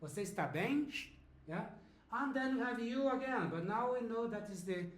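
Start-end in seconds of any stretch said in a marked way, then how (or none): 0.0-0.9 "bem" lifted at the end as a question; question intonation. Shown as a demonstration. Teacher reminds learners of the tune, question intonation. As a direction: let "bem" rise, asking. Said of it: "Pay attention to the intonation, remember?".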